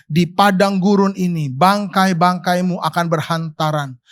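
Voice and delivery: steady, solemn reading of Numbers; solemn Bible reading to the congregation; scripture reading. Acted. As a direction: read the verse like a formal proclamation. Reads scripture aloud.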